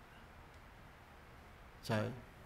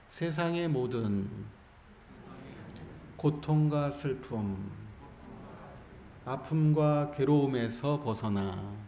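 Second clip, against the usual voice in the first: slow recited blessing, phrases drawn out; call-and-response recitation; 2 semitones lower, slower than usual. Shown as a demonstration. Monk leading the congregation in a blessing to repeat, slow recitation. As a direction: recite slowly for the room to repeat. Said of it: "잘 따라해 주세요".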